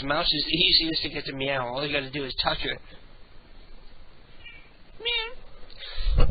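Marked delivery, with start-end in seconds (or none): 5.0-6.3 very high sing-song pet voice. Real, not acted. Host coaxing his cat to meow, high baby talk. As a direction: coo up high at the kitty.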